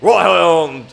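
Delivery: a hammed-up British accent, like a Scotland Yard copper. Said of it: "Can I do a British accent".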